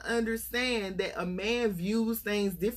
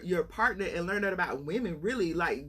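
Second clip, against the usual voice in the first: ordinary talk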